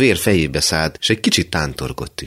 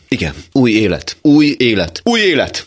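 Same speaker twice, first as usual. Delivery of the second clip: rising higher and louder with each új élet; jubilant, building; 7 semitones higher, 6 dB louder than usual. Acted. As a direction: crescendo of joy, each repeat climbing. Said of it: "Újjongott". (ujjongva, egyre magasabban és hangosabban)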